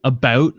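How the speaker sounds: "About" pushed toward "a-boat"; exaggerated Canadian "about". Shown as a demonstration. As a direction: overdo the Canadian vowel in "About". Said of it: "not as intense as I did".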